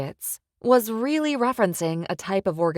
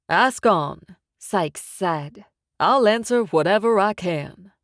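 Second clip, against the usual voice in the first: louder, mocking game-show cheer; gloating mob boss; 5 dB louder than usual. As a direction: crow over the win like a host. Sykes grandly invites questions.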